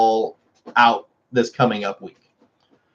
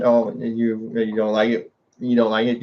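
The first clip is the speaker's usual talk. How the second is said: cooing to the dog; 3 semitones lower, 3 dB quieter than usual. Real, not acted.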